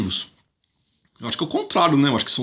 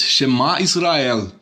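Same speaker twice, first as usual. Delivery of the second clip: solemn quote; slower than usual. Retold or imitated. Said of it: "ele diz".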